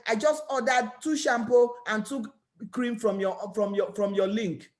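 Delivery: a hint of the customer reading her message; customer's text.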